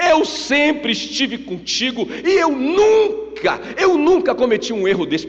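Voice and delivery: high, loud aggrieved outburst, stretched out; indignant protest. Acted. Older son complains to his father about the feast, indignant protest. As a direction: protest loudly like a wronged son.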